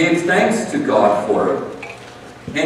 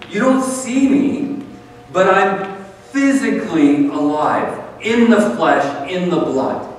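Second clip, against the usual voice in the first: higher, punchy insistence; emphatic Jesus; 5 semitones higher than usual. Acted. Jesus insists to disciples he is physically alive, emphatic. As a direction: press each word home.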